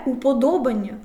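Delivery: «уподобання» з наголосом на ДО; виділи ДО, а не АН в «уподобання»; суфікс без наголосу. Shown as a demonstration. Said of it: "він не наголошений". (наголос на третьому складі: «уподобання»)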